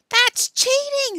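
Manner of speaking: high, loud, drawn-out accusation; outraged accusation. Acted. Billy catches the boys cheating, loud outraged accusation.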